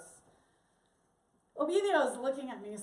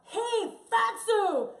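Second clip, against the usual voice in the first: high, loud heckle; raised, punchy street shout; mock yell; 9 semitones higher, 6 dB louder, much slower than usual. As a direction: call out like a rude passer-by. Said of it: "if somebody yells out".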